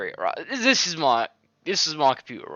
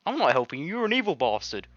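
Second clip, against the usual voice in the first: mock angry retort; 5 semitones higher than usual. Real, not acted. Retorts at game character.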